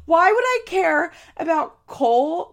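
loud, high, incredulous protest; exasperated. Real, not acted. Vlogger asks why she'd care what Cole said, exasperated. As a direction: push it out high and heated. Same outburst goes on.

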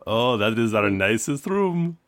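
lightly put-on Indian accent, slow. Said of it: "to racist Indian accent".

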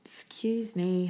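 breathy yawning apology. Real, not acted. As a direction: excuse yourself mid-yawn. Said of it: "I'm yawning already".

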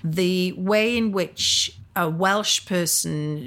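normal talking voice

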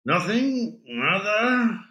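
put-on high, placating Spanish with an American accent; lightly voiced American speaking Spanish. A narrator's reading. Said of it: "in American accented Spanish".

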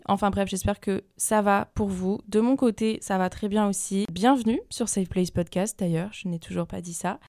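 morning voice; sleepy just-woke-up voice. Real, not acted. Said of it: "si j'ai la voix du matin".

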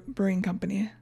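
whispered aside. Real, not acted. Cohost whispering the brewery name. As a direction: breathe the words out with no voice.

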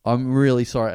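halting, subdued admission with long pauses; sheepish apology. Retold or imitated. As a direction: caught out and apologising.

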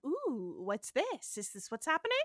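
lightly voiced, intrigued and delighted; a mild mock of a man meeting his first challenge; intrigued aristocrat. Host retelling Trelane's first challenge, lightly intrigued. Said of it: "a person who has never been challenged before".

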